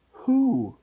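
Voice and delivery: high eager question; curious. Acted. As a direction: ask eagerly. Harry asks.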